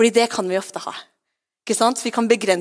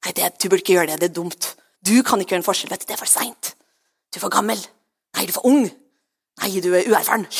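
low, lightly voiced inner accuser; whispering devil, mimicked; 3 semitones lower, faster than usual. Devil putting down a believer, mock whispering. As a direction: discourage the listener in a lowered voice. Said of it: "djevelen der bare driver og hvisker at".

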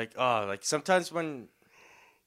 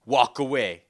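firm, louder warning at normal pitch; mock-stern order, held in check; retold super serious; 5 dB louder than usual. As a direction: imitate a dead-serious dismissal. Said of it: "super serious".

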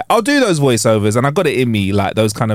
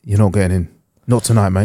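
bouncer; 6 semitones lower than usual. Acted. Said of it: "Just do it again".

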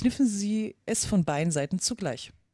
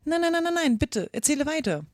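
high, quick-repeated pleading no; humble; 8 semitones higher than usual. A narrator's reading. Alice urging the Dormouse onward, humbly pleading. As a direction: beg meekly in a raised voice. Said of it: "sagte Alice ganz bescheiden".

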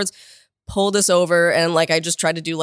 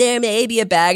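slightly high, mock-casual admission; trying to be cool; 4 semitones higher than usual. Suspect repeating her admission to officers, trying to be cool. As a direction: act nonchalant, not quite pulling it off. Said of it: "trying to be cool about it".

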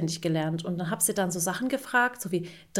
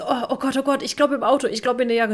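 higher, hurried oh-God panic; flustered dad; 4 semitones higher than usual. Retold or imitated. Mother imitating Murat searching for his keys, mock fluster. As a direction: play the dad caught without his keys.

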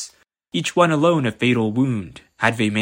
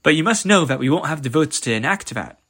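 christmas elf; 5 semitones higher, faster than usual. Acted. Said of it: "said the elf maid".

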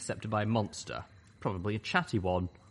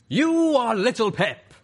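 huge, high, slow monster boom; thunderous exclamation; 13 semitones higher, 11 dB louder, slower than usual. A narrator's reading. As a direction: exclaim it like an earthquake filled with knives. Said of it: "its voice like an earthquake filled with knives".

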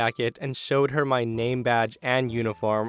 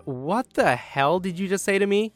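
indignant retort; 6 semitones higher than usual. A narrator's reading. Narrator retorts to rude lady.

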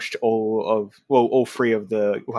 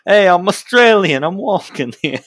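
mock Australian accent; 9 semitones higher, 9 dB louder than usual. Mocking the bad accent bit.

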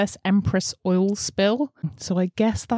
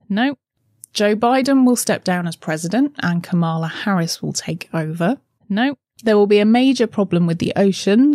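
bold prediction announcements; announcer read; 4 dB louder than usual. Acted. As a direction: read out each forecast loudly. Reading last year's predictions.

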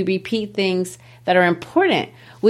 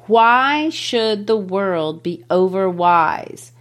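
slow, measured verse reading; poetry reading; slower than usual. Acted. Teacher reading a poem line to the class, slow recital. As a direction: read the line out slowly, drawing it out.

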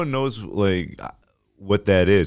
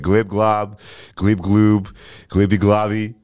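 glibby voice; slower than usual. Pretend. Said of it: "it's also fun to be".

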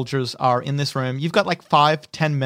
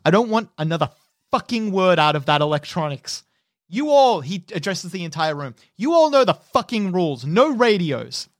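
angry officer. Acted. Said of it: "you see that he's furious".

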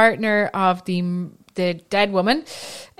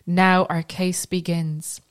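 put-on slow, light Philadelphia accent; a hint of Philly in the vowels; slower than usual. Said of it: "in a Philly accent".

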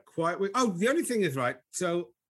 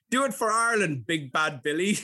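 higher-pitched imitation of a gym instructor; gym instructor's rallying call; 4 semitones higher, 3 dB louder than usual. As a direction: mimic the instructor egging on a client. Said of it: "he always goes to me".

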